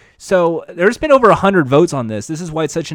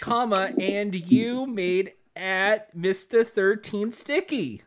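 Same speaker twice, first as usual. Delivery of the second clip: dictating quietly; 6 dB quieter, slower than usual. Real, not acted. Reads out tweet while typing.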